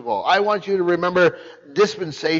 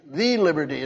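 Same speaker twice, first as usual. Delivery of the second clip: "The" leaned on to mark the definite article; stress on THE. Shown as a demonstration. Preacher to congregation, stressing "The" in "The liberty". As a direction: hit "The" before "liberty". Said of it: "There's a definite article with it".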